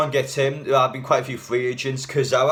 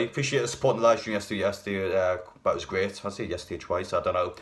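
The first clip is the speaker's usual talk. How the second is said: groggy, hungover voice; 3 semitones lower, 4 dB quieter than usual. Real, not acted. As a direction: talk like you're a bit hungover. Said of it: "Sorry guys, I'm a bit hungover".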